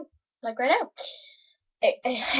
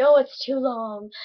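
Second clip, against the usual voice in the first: slow, louder imagined viewer whine; mock complaint; 7 dB louder, slower than usual. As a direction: drag it out as a mock objection.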